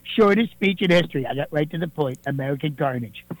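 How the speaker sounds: a fairly close Donald Trump impersonation, boastful. Acted. Impersonator calling the radio show as the president, Trump voice. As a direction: do Trump bragging to the host, leaning on believe me. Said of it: "not President Donald Trump".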